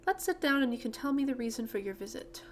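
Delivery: lightly acted British hostess; British accent. Miss Holdsworth invites her visitor to sit, British accent. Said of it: "I gave her a British accent".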